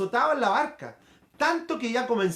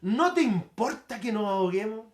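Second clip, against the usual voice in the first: raised, urgent plea to the master, short of a scream; discípulos gritando; slower than usual. Retold or imitated. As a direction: call out like desperate disciples, mildly. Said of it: "Y le gritaron, dice, le gritaron". (grito contenido de discípulos desesperados)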